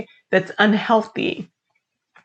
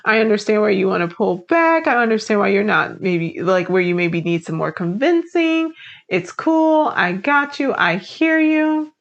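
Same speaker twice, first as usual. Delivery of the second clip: soothing reassurance. Retold or imitated. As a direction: gently settle a doubtful colleague. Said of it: "She's like".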